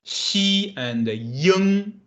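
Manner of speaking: Xi and Ying drawn out slowly; teacher breaking a syllable apart; very slow spelling. Shown as a demonstration. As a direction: stretch each part out slowly. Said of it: "How this should pronounce?".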